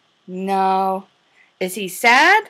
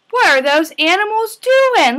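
gasping, raised wonder; mock surprise; 8 semitones higher than usual. Teacher asking toddlers with a playful gasp. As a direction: gasp and ask like it's a big surprise.

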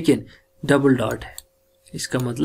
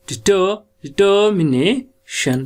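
डिटरमिनेशन with the first part stressed, slow; primary stress shown; 5 semitones higher, slower than usual. Shown as a demonstration. Teacher marking primary stress for the class. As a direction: hit डिटर in डिटरमिनेशन. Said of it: "primary stress इधर लगनी है".

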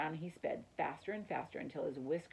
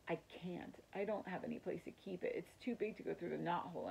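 excitement drained; 4 dB quieter than usual. Acted. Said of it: "The excitement drained out of Ralph".

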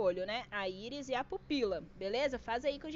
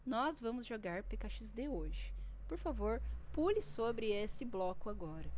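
mock well-behaved streamer; 3 semitones lower, 4 dB quieter than usual. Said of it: "Papai Paulo e Filipinho faz live assim".

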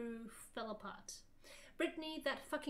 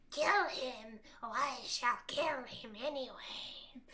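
a touch of a sinister villain, slow and hushed; crude villain; slower than usual. Acted. Voldemort orders Ebony to kill, mild hushed menace. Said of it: "he laughed crudely".

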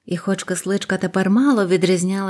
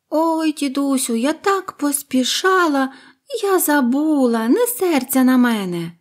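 high, pleading bird voice; apologetic little bird; 7 semitones higher than usual. Acted. Bird pleads with grandfather, high and sorry. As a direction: sweetly beg forgiveness.

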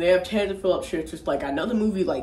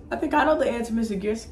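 higher put-on schoolboy voice; Kyle; 5 semitones higher, much faster than usual. Kyle offers teacher an answer, schoolboy voice. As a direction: answer teacher in a retold kid voice. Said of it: "Kyle goes".

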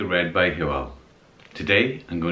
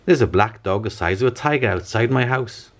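raised pitch, storybook alarm; alarmed report; 7 semitones higher than usual. A narrator's reading. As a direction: report it to the police in mild panic. Alarmed man phoning the police.

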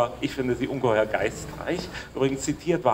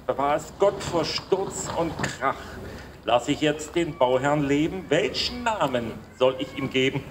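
measured, declaimed verse with pauses between lines; formal poetry reading; poem recitation. Acted. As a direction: recite a ceremonial verse line by line. Recites Wagner's dedication poem.

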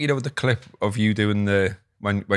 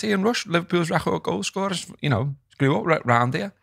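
mock Welsh; 9 semitones higher than usual. Retold chippy chat, high voice.

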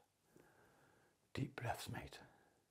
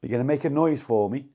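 calling out; 4 semitones higher, 6 dB louder than usual. Real, not acted. Calling out to a ghost.

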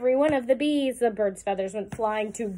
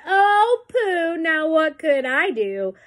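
amused scoff; 4 semitones higher, 4 dB louder, slower than usual. A narrator's reading. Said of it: "The mouse laughed".

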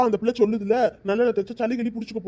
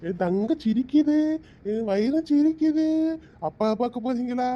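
put-on cooing to a baby. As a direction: hush and coax the crying baby gently. Grandfather soothing crying baby.

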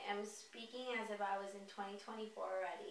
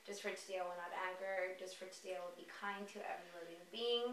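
reciting precepts. Acted. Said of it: "five original Reiki precepts".

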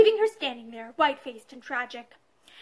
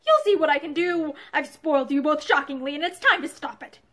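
mocking defiance; 4 dB louder than usual. Husband defiant mocking retort.

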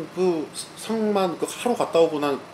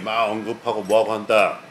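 ordinary delivery

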